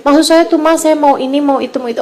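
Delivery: imitated child's small request; soft-spoken child. Child tells mother what they want, quietly. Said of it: "Nanti dia mulain tuh ngomongnya pelan".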